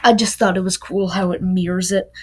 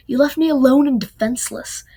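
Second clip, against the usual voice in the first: higher, louder accusation; hurt accusation; 5 semitones higher, 4 dB louder, faster than usual. Acted. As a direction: throw the hurt right at him. Argument, Nico accusing Will.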